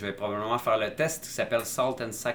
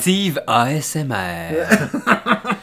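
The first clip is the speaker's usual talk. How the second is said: laughing; 5 semitones higher, 8 dB louder, much slower than usual. Real, not acted. Laughing at host's sensual bit.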